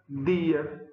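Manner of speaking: "dia" with a hard dental d, no j sound; pronúncia pernambucana. Shown as a demonstration. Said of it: "a variedade pernambucana". ("dia" pernambucano, com d seco)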